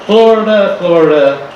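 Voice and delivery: "Florida" sung out high. Shown as a demonstration.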